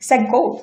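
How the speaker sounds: "set goal" as sek, a catch, then goal; glottal stop. Shown as a demonstration. Teacher models a bump, "set goal" as sek-goal. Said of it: "একটা ধাক্কা খেয়ে পরে".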